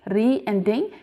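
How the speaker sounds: REE and DING as separate units; split into syllables. Shown as a demonstration. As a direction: sound out re, then ding. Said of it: "because there are two syllables".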